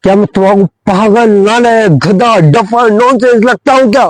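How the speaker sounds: mock principal yelling. Principal scolding the boys for insulting him, mock yell. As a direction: ham up an offended principal's rant. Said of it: "principal sir ने चिल्ला के कहा".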